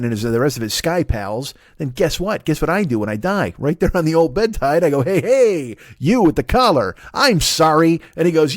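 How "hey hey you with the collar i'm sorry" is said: raised, higher deathbed holler; mock calling out. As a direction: call over the priest in mock urgency. Acts out deathbed call to priest.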